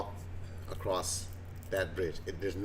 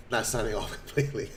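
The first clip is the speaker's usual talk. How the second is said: laughing; 3 dB quieter, faster than usual. Real, not acted. Laughing jokey correction.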